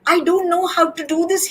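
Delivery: high, lightly panted worry; a narrator's mild take on a panting Dog. A narrator's reading. Dog runs after Cat for help, panting. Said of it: "he pants".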